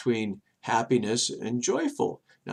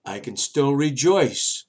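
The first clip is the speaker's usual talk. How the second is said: rejoicing; 3 semitones lower, slower than usual. Retold or imitated. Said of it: "And he goes".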